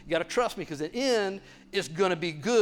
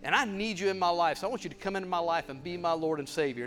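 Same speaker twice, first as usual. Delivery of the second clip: quiet prayer; 5 dB quieter than usual. Retold or imitated. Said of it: "and he said".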